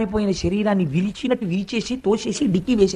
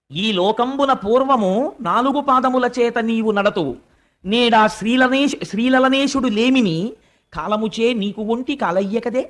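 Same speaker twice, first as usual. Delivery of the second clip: slow, measured Telugu poem recital; stately, drawn-out scriptural recitation; verse recitation; slower than usual. Acted. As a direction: draw out each phrase of the verse.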